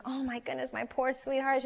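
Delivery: a touch of anxious mom; worried mother. Retold or imitated. Worried mother voiced in story.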